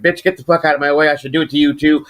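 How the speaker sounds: a mild mock of his own enraged threat; retold rage. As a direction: replay the fury of the moment. Lunging at the man with a knife.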